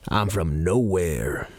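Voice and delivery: slow, flat deadpan Carlin delivery; George Carlin bit. Retold or imitated. Retelling the Carlin bit to listeners, slow deadpan. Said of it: "He's like".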